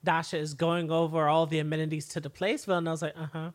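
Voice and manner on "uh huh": mildly uninterested. Retold or imitated. Voices an uninterested Villanelle.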